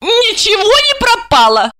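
put-on high, swaying drunk denial; a lightly voiced drunk woman; tipsy protest. A narrator's reading. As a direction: drunk wife waving it away. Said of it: "пьяно качнувшись".

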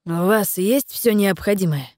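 slow, wheezing, squeezed throat; strained whistling whisper of a sick man. Acted. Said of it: "спросил он свистящим, сдавленным голосом".

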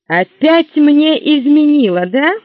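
jealous anger. Acted. Jealous husband.

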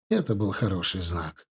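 ordinary delivery

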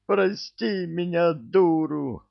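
high, slow begging female voice; begging woman. Acted. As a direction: beg forgiveness in a high voice. Woman begs forgiveness.

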